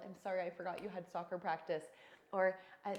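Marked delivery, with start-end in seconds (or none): 0.0-1.8 put-on apology to child. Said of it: "apologizing to my child".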